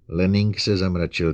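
usual speaking voice

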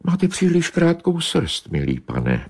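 high, dismissive cat voice; disdainful she-cat. Acted. She-cat snubbing Bobeš, high and dismissive. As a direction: snub him sweetly. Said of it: "pravila kočka naproti".

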